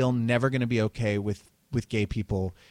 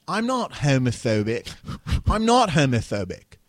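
exaggerated Philadelphia accent, NOT punched louder; mock Philly accent; 3 semitones higher, 5 dB louder than usual. Mocking the preacher to friends in a Philly accent. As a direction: lean hard into a Philly accent on "I'm not homophobic". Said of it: "horrible Philly accents where he says".

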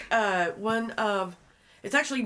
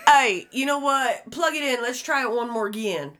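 imitating Fast Eddie; 4 semitones higher, 6 dB louder than usual. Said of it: "the shit this man says".

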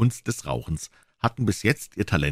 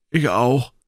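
lightly voiced boy, higher and louder; eager boy Joe; 6 semitones higher, 5 dB louder than usual. A narrator's reading.

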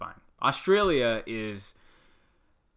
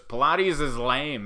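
mock dismissal; 3 semitones higher, 5 dB louder, slower than usual. Friend shoots down the idea.

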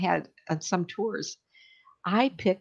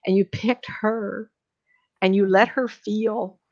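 near tears; 3 semitones higher, slower than usual. Real, not acted. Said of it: "oh, I'm gonna cry".

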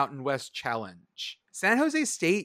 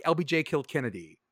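deadpan. Retold or imitated.

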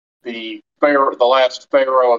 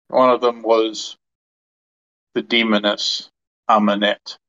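measured in-character monologue with long pauses; lightly voiced ancient deity, pausing between phrases; ancient god recounting history; 2 semitones lower than usual. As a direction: tell it solemnly, phrase by phrase. Game master speaks as the god.

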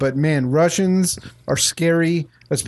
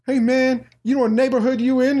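higher-pitched mock thug; big thug; 10 semitones higher than usual. Thug stops man walking down the street, mock menace. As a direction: play a thug accosting a stranger. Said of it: "two big thugs came up to me".

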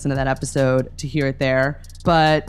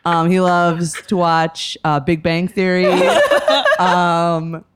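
laughing; 3 semitones higher than usual. Real, not acted. Keeps talking about the dog, laughing.

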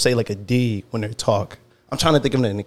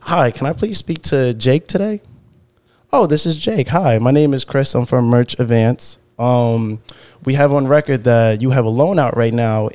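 typical white voice. Shown as a demonstration. A caller pitching loan consolidation, in a put-on customer-service voice. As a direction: put on your trustworthy cold-call phone voice. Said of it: "do the typical white voice".

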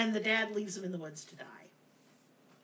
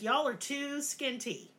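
put-on old witch complaining; 5 semitones higher, slower than usual. Witch voiced.

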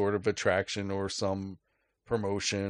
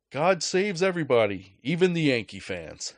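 smug stranger teasing; 5 semitones higher, 4 dB louder than usual. Retold or imitated. Card guy's jab, quoted.

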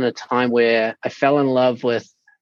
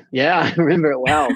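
chuckling through the words; a fond laugh while answering; 4 semitones higher, faster than usual. Real, not acted. Laughs recalling his first game.

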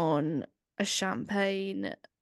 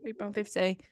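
mock shopper; 2 semitones higher than usual. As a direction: haggle at the checkout. Voicing shoppers at the till.

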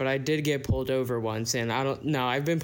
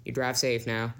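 put-on Southern accent; 3 semitones lower than usual. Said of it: "my Southern man accent".

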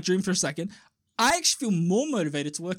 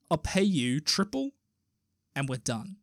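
put-on African Russian accent; 3 semitones lower than usual. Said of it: "he's an African Russian".

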